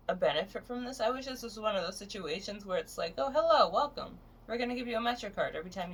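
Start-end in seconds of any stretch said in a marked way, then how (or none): 3.2-5.9 high, chirpy pretend greeter; imitating an eager receptionist, high-pitched; mock welcome. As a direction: greet them in a high put-on hello. Imagined clinic greeting.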